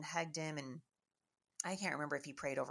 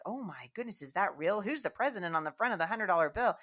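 lightly voiced wide-eyed children; mild mock amazement, imitating excited kids; amazed kids; 4 semitones higher, 5 dB louder than usual. Voices kids seeing rare bill.

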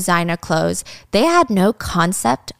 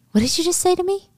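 mock offended chief; 10 semitones higher than usual. Chief accused by officer.

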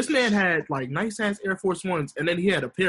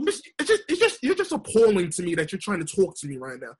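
mock New York girl rejecting a suitor; New York girl accent. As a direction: turn him down in a put-on New York accent. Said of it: "That's how we sound, though".

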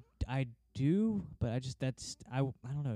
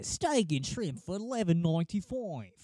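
Outback ad voice; 5 semitones higher than usual. Retold or imitated. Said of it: "the guy in the Outback commercial".

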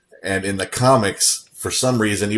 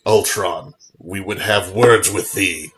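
bold swashbuckling bravado; slower than usual. Retold or imitated. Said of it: "a big moment where he goes".

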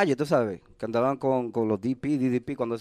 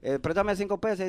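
higher pleading ask; asking stepfather for money; 6 semitones higher, slower than usual. Retold or imitated. Young stepson begging stepfather for cash, pitched-up plea. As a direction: beg for five pesos, voice pitched up. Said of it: "que tú le decías".

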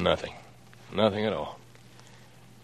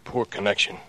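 guarded excuse on the phone; cagey; 3 semitones lower than usual. Pretend. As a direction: cover yourself in as few words as possible. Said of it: "You sound so cagey".

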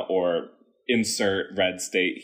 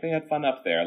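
backhanded remark; 6 semitones higher, faster than usual. Retold or imitated. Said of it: "like, in a backhanded".

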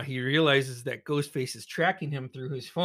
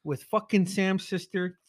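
laughing accusation; 6 semitones higher than usual. Retold or imitated. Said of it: "so I'm just like".

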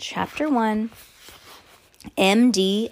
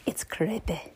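hushed, whispered creepy; spooky whisper; 7 dB quieter than usual. Pretend. Sharing creepy wind sounds with co-host, whispered spookily. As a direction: breathe it out like a ghost story.

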